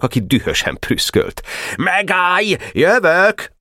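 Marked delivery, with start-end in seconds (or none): 1.8-3.5 high, threatening battle cry; angry yell. A narrator's reading. Pásztor threatening his attacker from below, angry yell. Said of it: "ordította haragosan".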